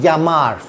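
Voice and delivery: "यामार" with double L said as y. Shown as a demonstration. Teacher recapping the double L rule, Y sound. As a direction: glide into "यामार" on a y. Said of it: "डबल एल की आवाज़ या".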